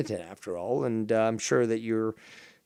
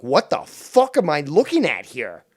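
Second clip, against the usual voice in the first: rising, louder mock-panicked outburst; 2 semitones higher, 5 dB louder than usual. Streamer panicking at the sight of a thumb, mock panic. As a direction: let the freak-out build, louder. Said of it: "I'm starting to panic here".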